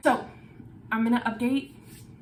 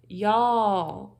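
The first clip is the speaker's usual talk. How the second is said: emphatic y'all. Real, not acted. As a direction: cry out "Y'all." to the viewers. Repeated exclamation to viewers.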